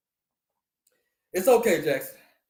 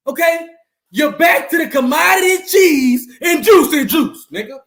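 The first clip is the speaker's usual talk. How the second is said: taunting shout. Real, not acted. Taunting losing rival team.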